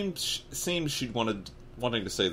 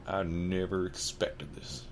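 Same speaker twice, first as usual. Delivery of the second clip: slow, soft, lowered voice; low, worried; 5 dB quieter, slower than usual. Acted. Anger faded, anxious giant in a low worried voice. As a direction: say it low and troubled. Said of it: "he said in a low, worried voice".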